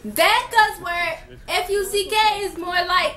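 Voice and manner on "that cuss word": laughing. Real, not acted. Still laughing, slowed.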